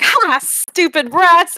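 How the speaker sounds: high, loud jeering cheer, stretched out; triumphant cheer. Acted. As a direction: crow slowly over beaten enemies. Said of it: "cheers and he's like".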